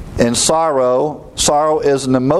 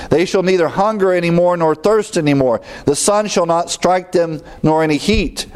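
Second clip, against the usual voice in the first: higher-pitched pulpit reading; scripture reading; 5 semitones higher than usual. A narrator's reading. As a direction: read the verse out to the congregation. Reads scripture to congregation.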